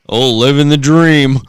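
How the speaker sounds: slow, dry "living the dream"; sarcastic. Retold or imitated. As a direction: drag it out with mock cheer. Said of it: "they said it sarcastically".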